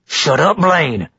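short, sharp rebuke; snapped. A narrator's reading. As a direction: snap at him to stop. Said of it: "Mister Givry snapped".

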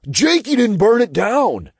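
high-pitched, indignant little character voice; Todd interjecting. A narrator's reading. Little sidekick defends Jacob, high-voiced interjection. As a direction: butt in with a high voice. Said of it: "Todd interjected".

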